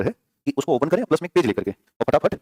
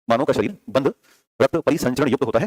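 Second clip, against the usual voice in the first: dictating. Shown as a demonstration. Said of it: "तो लिखिएगा".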